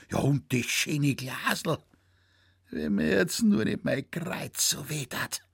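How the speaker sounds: put-on high, gushing old man's thanks; tumbling over his words with gratitude; old Zecherl thanking Franz for the snuff; overjoyed old man.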